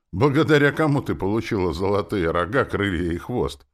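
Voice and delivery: high, loud taunting question; snide. A narrator's reading. Man reminding the demon of her debt, snide. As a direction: rub it in sarcastically. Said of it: "поинтересовался я ехидно".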